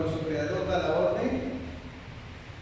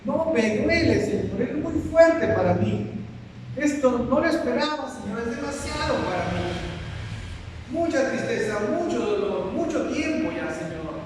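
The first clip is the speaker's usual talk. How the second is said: anguished protest; 4 semitones higher than usual. Acted. Believer protests to the Lord.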